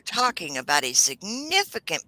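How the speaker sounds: mock-whiny lawyer, dramatic opening; whiny lawyer impression. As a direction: lightly imitate a whining attorney addressing the judge. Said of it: "I really can't do his whiny voice justice".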